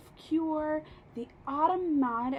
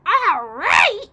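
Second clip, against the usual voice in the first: higher, louder outraged yell; 6 semitones higher, 12 dB louder than usual. A narrator's reading. Grandma yells back at the boy, loud. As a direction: fling the words back in outrage. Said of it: "she yelled".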